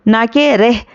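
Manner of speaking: रेह with a plain e, the wrong way; wrong reading shown. Shown as a demonstration. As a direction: contrast the mistake रेह. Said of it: "तो ये गलत है". (गलत उच्चारण रेह)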